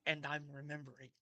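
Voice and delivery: understated, lightly voiced second self; Luna. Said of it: "And Luna will say".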